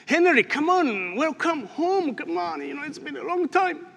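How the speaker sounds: a hint of an old friend calling out; imagined greeting. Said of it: "Somebody should come and say".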